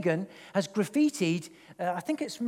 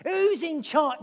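gargoyle taunt; 7 semitones higher, slower than usual. Retold or imitated. Gargoyles in his vision taunting him, a slow menacing sneer. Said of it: "gargoyle faces were gnashing their teeth at me, saying".

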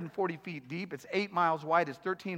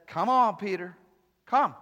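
gentle Jesus; 2 semitones higher, 4 dB louder than usual. Retold or imitated. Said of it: "Jesus says".

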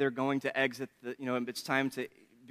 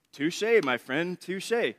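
mock dramatic concession; 3 semitones higher, 4 dB louder, much slower than usual. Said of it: "all I could say was".

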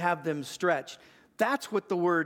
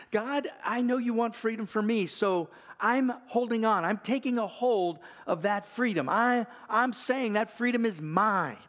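bold self-talk; 6 semitones higher than usual. Shown as a demonstration. Preacher modelling self-talk, raised confident declaration. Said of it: "you'll say to yourself".

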